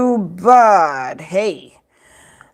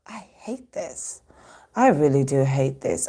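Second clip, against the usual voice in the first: deflated; 7 semitones lower, 6 dB quieter than usual. Real, not acted. Deflated after the shriek.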